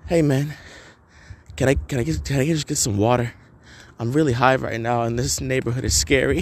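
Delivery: a mild take on a dazed guy asking for water; stoned stranger. Retold or imitated. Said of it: "this is how he sounded. I'm doing this fucking verbatim".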